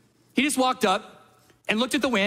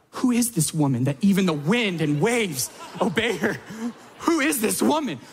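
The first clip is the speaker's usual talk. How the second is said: amazed. Retold or imitated. Preacher marveling at the mom, laughing amazed disbelief. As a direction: marvel at her like a miracle. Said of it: "I was like".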